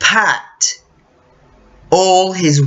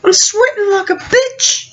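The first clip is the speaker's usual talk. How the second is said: high, whiny mock outrage; panicked sweating friend; 13 semitones higher than usual. Mimicking the American friend sweating in the Australian heat, high and whiny. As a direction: wail it like he's melting. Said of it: "He's like".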